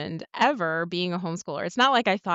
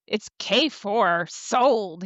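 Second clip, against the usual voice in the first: slow, louder shrugging "sold"; breezy agreement; 3 semitones higher, 5 dB louder, much slower than usual. Retold or imitated. Wife to husband agreeing to try it, breezy mock shrug. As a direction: agree just to end it. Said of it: "I was like".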